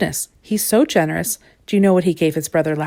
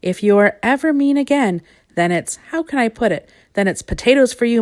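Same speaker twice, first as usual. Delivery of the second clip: stern; 4 semitones higher, 4 dB louder than usual. Acted. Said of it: "he added sternly".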